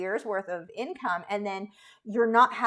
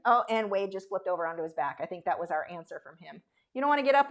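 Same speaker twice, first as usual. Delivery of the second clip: ordinary talk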